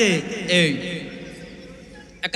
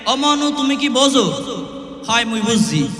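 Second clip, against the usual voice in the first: Barisal dialect. Shown as a demonstration. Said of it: "এটা হচ্ছে বরিশালের ভাষা".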